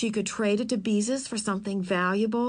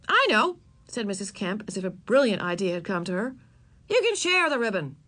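bright-idea mother. Acted. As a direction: announce a brilliant solution.

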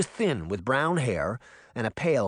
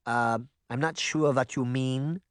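stammering. Acted. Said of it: "Granny stammered".

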